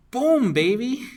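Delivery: high, loud whoop of triumph; triumphant cheer. Real, not acted. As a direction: celebrate the result like a win. Simulation result comes out right.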